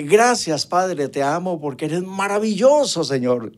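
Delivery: loud, high cry of thanks to God; father loudly thanking God at his son's death; loud praise. Retold or imitated. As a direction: lift the voice in praise. Father praises God with raised hands.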